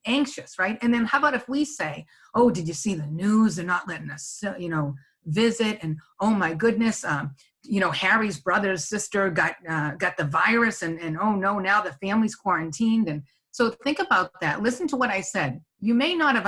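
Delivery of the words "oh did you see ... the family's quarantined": acted worried news-sharing, slightly pushed; stressed voice. Shown as a demonstration. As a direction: demonstrate mild stress while passing on news. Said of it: "could you hear the stress in my voice".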